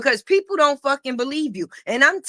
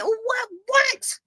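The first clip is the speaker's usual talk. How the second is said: incredulous what; 9 semitones higher than usual. Real, not acted. Challenging critics.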